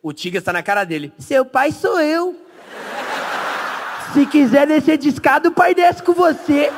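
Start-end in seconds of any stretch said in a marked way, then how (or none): 1.2-6.7 high, loud, slow proclamation; mock stern yelling. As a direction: imitate a friend shouting in a child's face. Tigas grita na cara da criança. (bronca gritada, encenada)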